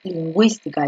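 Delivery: "lingüística" as leen-GWEES-tee-ka; u pronounced. Shown as a demonstration. Teacher shows dieresis makes the U heard, "lingüística" with gw. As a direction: sound the ü of "lingüística" as w. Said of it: "ahí sí tú dices".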